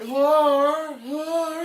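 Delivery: high loud chant of whore; shouted whore. Retold or imitated. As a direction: yell it out, mocking. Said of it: "the friend's like".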